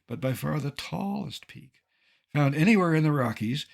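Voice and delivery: ordinary talk, nothing marked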